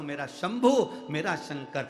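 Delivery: heartfelt invocation. Shown as a demonstration. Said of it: "दिल से कहो".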